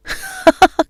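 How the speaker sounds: hearty laugh. Acted. Father laughs at son.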